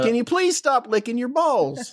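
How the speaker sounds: high, laughing guard; guard voice breaking into laughter. Acted. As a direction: barely hold the voice through a laugh. Guard scolds dog, laughing.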